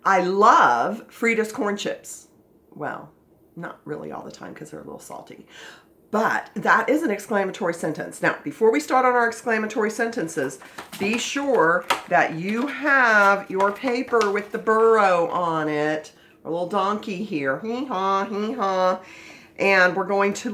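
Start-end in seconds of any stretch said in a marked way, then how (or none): 0.0-2.3 slow, loud exclamation; exclamatory. Shown as a demonstration. Teacher models an exclamatory sentence for the class, slow and emphatic. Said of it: "I'm gonna give you an exclamatory sentence". 17.6-19.0 donkey bray. Pretend. Imitating the donkey picture.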